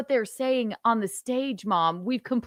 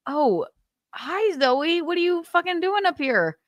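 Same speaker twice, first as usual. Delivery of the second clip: mock annoyed winner; 9 semitones higher than usual. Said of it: "the poor French woman is just going".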